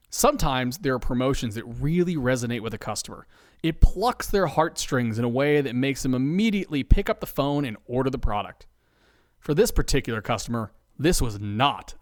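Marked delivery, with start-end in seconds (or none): none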